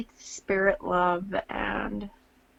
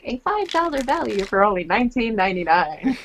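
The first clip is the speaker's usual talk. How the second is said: infomercial voice; 2 semitones higher, 6 dB louder than usual. Retold or imitated. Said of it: "making fun of infomercials".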